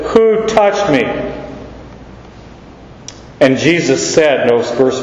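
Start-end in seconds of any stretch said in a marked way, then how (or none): 0.1-1.0 "Who touched me?" pitched high, stress on WHO; speaking over them. Acted. Christ speaks over the disciples' explanation, high emphatic WHO. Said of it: "he speaks over them".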